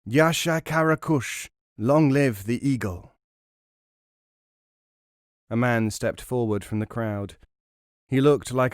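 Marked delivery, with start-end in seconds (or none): 0.0-3.2 higher, louder rallying cry; defiant shout. Acted. Lalbaz cries out to the bazaar crowd, defiant shout. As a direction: hurl the slogan across the crowd. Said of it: "At the top of his voice, he shouted".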